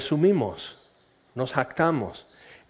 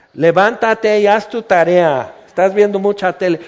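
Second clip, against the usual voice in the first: louder, brisk dismissive parent; offhand louder scolding; mock nonchalant order; 3 semitones higher, 6 dB louder than usual. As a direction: brush off the sick kid. Tired parent of many kids.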